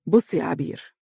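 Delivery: understated calm address; measured, composed husband. A narrator's reading. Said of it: "فقال بهدوء".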